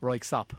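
the band name with the K sound before the S; careful pronunciation. Shown as a demonstration. Host correcting the contestants' spelling, clear pronunciation. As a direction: land the band name with K then S, falling at the end. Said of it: "swap the K and the S around".

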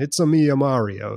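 a light mock Italian accent, only lightly voiced. Retelling the movie's plumbing commercial, light mock Italian accent. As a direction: toss off a cartoon Italian accent, half-hearted. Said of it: "they're doing the accent".

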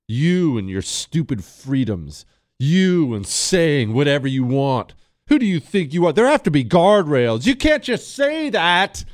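lampoon a smug scold; mocking the leaders. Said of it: "These people think the problem is you".

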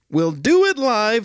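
Bill O'Reilly rant. Retold or imitated. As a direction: yell it like an anchor losing it. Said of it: "the Bill O'Reilly Freakout".

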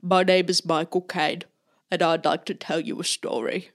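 lightly done mock cockney film-star voice; a loose, playful take on a London movie star; Michael Caine voice. To a friend, showing off the impression from Memorial Day, lightly mock cockney film star. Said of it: "you wanna hear my Michael Caine impression".

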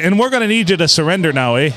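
mock Canadian Mountie. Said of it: "And then they're gonna say".

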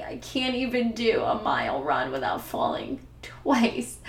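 teary, high voice breaking through a laugh; laugh-crying through the tears; crying and laughing at herself, voice high and wobbly; real crying. Real, not acted. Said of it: "oh, I am crying".

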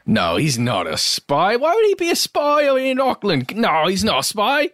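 high put-on Cockney accent, a hint of Mary Poppins; a spy trying out a Cockney accent; mock Cockney spy. Imitating a spy's bad cover, high Cockney accent. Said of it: "What accent is this?".

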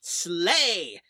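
drawn-out mock battle cry; playful war cry, stretched on one word; mock yell. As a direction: yell it like a rowdy sports fan. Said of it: "we're going to start yelling that".

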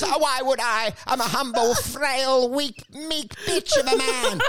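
high, slow, cowering whine; cringing meek man. Pretend. Meek genius telling the visitor he is humble, high and cowering. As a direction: grovel about how weak you are.

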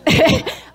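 high, loud burst of laughter. Real, not acted. Actress amused at her morning tape fights, laughing. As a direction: laugh out high before the story. Laughs before acting out squabble.

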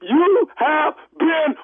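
prank reveal laughing. Real, not acted.

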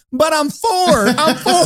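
put-on high-pitched protesting little kid; mock kid's indignant whine; Enzo. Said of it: "And Enzo's going".

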